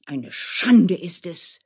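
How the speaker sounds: slow, emphatic outrage; wild indignant cry. Acted. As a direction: cry shame, drawing out the words. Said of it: "schrie Dmitri noch wilder". (empörter Ausruf, gedehnt)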